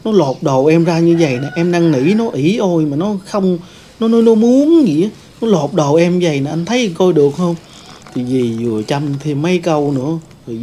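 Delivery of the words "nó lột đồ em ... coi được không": higher, louder tearful-sounding accusation; aunt falsely accusing the nephew to her husband, higher and louder. Retold or imitated. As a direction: play the victim to the husband, rising to a near shriek. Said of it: "Dì nói á".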